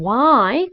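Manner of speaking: WHY said big and drawn out; clearly enunciated WHY. Shown as a demonstration. English coach shows students the first word, big clear WHY. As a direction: stretch WHY wide open as one slow word. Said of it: "크게 발음을 해주세요".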